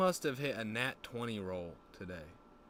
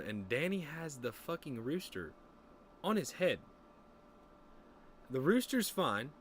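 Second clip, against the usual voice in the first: usual speaking voice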